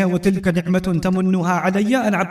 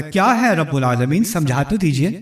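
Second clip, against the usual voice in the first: mock earnest question; 3 semitones lower than usual. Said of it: "ظاہر کیا کہ وہ سنجیدہ سوال ہے".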